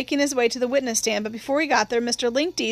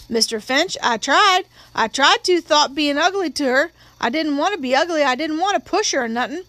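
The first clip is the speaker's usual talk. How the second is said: higher, earnest witness voice; pleading witness; 4 semitones higher than usual. Acted. Witness explaining he tried to resist, higher and pleading. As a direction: plead to be believed, pitch lifted.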